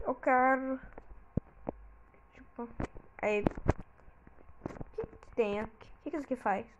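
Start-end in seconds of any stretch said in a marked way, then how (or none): 3.4-6.7 curious whisper. Real, not acted.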